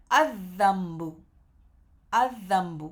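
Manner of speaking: "الذنب" said as adh-dhanb, lam silent, dhal doubled; model reading. Shown as a demonstration. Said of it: "لام نہیں پڑھا گیا نا".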